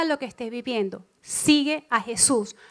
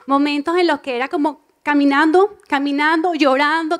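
louder, rising lament; impassioned testimony; 7 dB louder than usual. Real, not acted. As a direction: pour out the memory with feeling. Recalling weeping times. (testimonio apasionado y en aumento)

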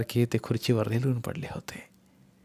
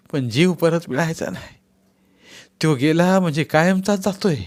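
coaxing; 4 semitones higher, 3 dB louder than usual. Acted. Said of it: "बापूंची समजूत काढीत".

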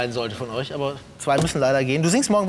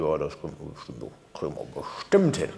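much lower, disguised phone voice; disguised deep voice; 12 semitones lower, 5 dB quieter than usual. Acted. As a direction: drop the voice low to hide who you are. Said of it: "meine Stimme verstellt".

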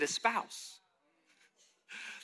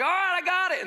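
much higher, louder Tennessee twang; Southern twang; 13 semitones higher, 6 dB louder than usual. Retold or imitated. City kid caught up in the mud run, loud, high Tennessee twang. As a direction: whoop it out in a put-on Tennessee twang. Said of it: "I have a twang too".

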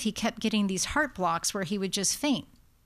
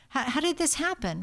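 higher, halting question, mildly lost; bewildered; 4 semitones higher than usual. Acted. Family asking the doctor how this happened, mildly bewildered. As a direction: stumble into the question as if baffled. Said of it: "helps calm this bewilderment".

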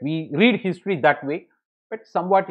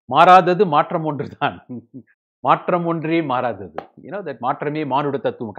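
rapid Tamil recitation; 6 dB louder, much faster than usual. Real, not acted. Rattles off Tamil sayings.

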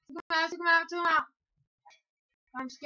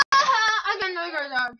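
laughing shout; 4 dB louder than usual. Real, not acted. Laughing shout after dog.

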